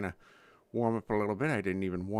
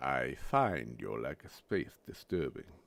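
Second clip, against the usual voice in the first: very deep bass voice at its lowest; 9 semitones lower, 4 dB quieter than usual. Doing voice impressions in a bassy mood this morning, now a bassy James Earl Jones voice. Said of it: "I'm kind of in a, a bassy mood".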